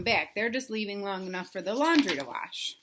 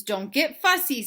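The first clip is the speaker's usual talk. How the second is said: mild warning daddy; 5 semitones higher, 5 dB louder than usual. Acted. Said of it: "said her daddy".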